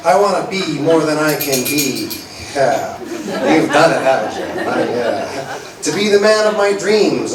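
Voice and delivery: dramatic spoken word delivery; poem recitation. Acted. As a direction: read it like a slam poem, savoring each image.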